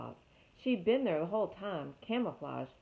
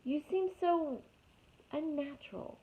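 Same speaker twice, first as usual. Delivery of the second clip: screech; 9 semitones higher than usual. Acted. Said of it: "screeched the owl".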